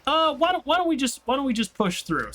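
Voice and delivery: a mock brother pushing to keep working; imitating brother. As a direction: ham up the brother who won't quit.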